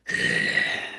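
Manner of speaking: low unvoiced breath noise; creature exhale. Jaeger emerges and makes a noise.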